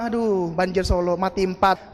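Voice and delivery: slow, low weary moan; mock lament. Complainer reading grim news in the paper, mock lament. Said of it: "Pas dia ngeluh".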